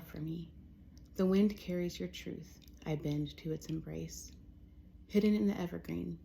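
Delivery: measured poem reading with pauses between phrases; poetry reading. Acted. Poet reading a poem for fall to listeners, measured poetry reading. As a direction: let each line settle before the next. Reads own poems aloud.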